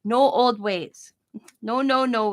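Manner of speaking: slow, stretched mock refusal; doctor's drawn-out way of talking; doctor impression. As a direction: lightly imitate the doctor, drawing out each no. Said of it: "that's the way he talks".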